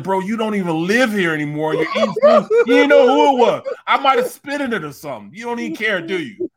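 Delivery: loud, high retold scolding; scolding son. Dad scolding his grown son, loud and high. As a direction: berate the son who ate your food.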